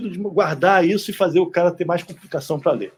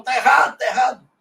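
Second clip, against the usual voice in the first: Tá errado, called out louder and higher; mocking shout of tá errado; mock objection; 5 semitones higher, 5 dB louder than usual. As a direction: imitate people calling it wrong.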